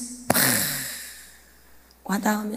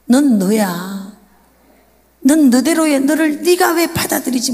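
God rebuking. Retold or imitated. Preacher voicing God's rebuke to her in prayer. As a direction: speak as God gently but firmly scolding. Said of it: "그러면서 막 질책하시는 거예요".

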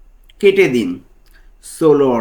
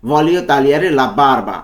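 slow model phrase; much slower than usual. Shown as a demonstration. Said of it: "একসাথে কি হবে তাহলে?".

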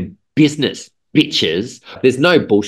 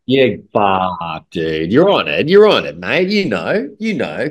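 excited agreement; slower than usual. Real, not acted. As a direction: swoop up with glee. Excited agreement, pitch leaps.

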